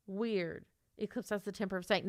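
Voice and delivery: ordinary talk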